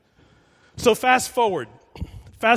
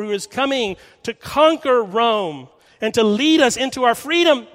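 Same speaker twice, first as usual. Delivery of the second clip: higher and louder, an eager believer crying out; fervent proclamation; 4 semitones higher, 3 dB louder than usual. Acted. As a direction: proclaim him as the long-awaited saviour. Preacher voices Peter's fervent hope.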